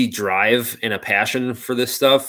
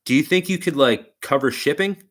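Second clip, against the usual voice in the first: higher-pitched tentative question, lightly imitated; imitating the caller's ask; 5 semitones higher than usual. Motor builder asks the customer about shipping, imitated higher-pitched ask. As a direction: mimic him floating the request, rising at the end. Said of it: "he said it just like this".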